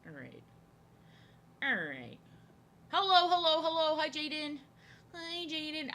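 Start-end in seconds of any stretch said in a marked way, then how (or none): 2.9-5.9 high, loud sing-song hello; high cheery hello-hello-hello; singsong greeting. Real, not acted. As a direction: call out a bright stream welcome. Greeting a new viewer.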